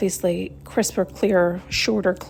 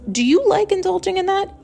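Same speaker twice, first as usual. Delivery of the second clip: pointed question; 10 semitones higher than usual. Pretend.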